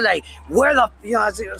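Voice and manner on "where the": loud, higher mock yell at the sky; yelling at God. High on a blunt, yelling up at God. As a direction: shout it up at God in frustration. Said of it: "I yell".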